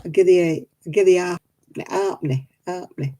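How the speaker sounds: lightly imitated old Oldham grandad, "give thee a halfpenny"; Grandad Butterworth's Oldham dialect. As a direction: coax the child in broad Oldham dialect. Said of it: "he used to say".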